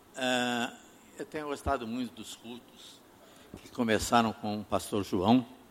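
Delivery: speaking softly in a quiet, hushed voice.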